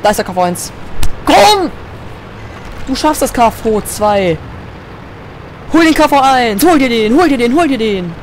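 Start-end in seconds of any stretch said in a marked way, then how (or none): 1.2-8.1 urgent cheering on. Real, not acted. Urging teammate to kill.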